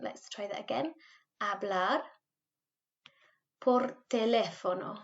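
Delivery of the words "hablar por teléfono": Hablar with a silent H, teléfono stressed te-LÉ-fono. Shown as a demonstration. Teacher retries the phrase for pupils with stress. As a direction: drop the H and lean on the LÉ. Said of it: "there is an accent on the E ... H is silent".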